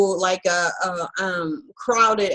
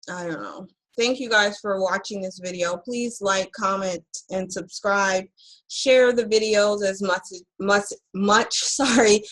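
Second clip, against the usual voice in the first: numb mouth. Real, not acted. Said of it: "half of my mouth is numb".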